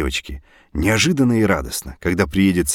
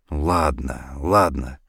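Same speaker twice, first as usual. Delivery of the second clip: soothing; 6 semitones lower, 4 dB quieter, slower than usual. Acted. Husband comforts crying wife.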